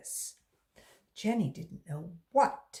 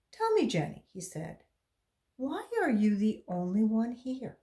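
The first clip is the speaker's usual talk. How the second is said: probing man; 5 semitones higher, 3 dB louder than usual. A narrator's reading. Bald man questions girl.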